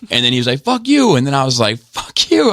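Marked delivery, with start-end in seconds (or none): 0.6-1.1 high-pitched mock yell; exaggerated road-rage comeback; imitated angry driver. Retold insult from other driver. 1.8-2.5 very high mock yell; re-enacted road-rage retort; retold angry comeback. Retold insult hurled back.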